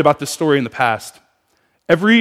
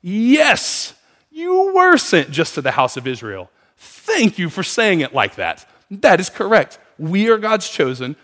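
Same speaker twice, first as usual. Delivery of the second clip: rejoicing audience. Retold or imitated. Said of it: "the Jewish audience of that day rejoices".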